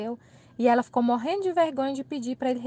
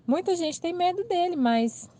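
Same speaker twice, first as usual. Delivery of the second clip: normal talking voice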